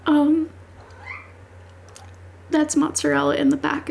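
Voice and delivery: high, teary voice, words wobbling; real crying while talking it through. Real, not acted. Creator crying over the final line, voice high and teary. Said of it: "Um, I'm crying".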